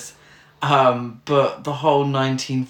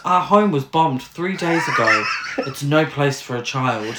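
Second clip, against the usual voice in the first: quoting film line. Retold or imitated. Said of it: "she actually says the words".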